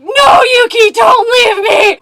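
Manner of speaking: loud, high, hammed-up wail; slowed, shouted melodramatic cry; mock desperate plea. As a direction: beg like a clingy yandere, over the top. Voicing clingy yandere text.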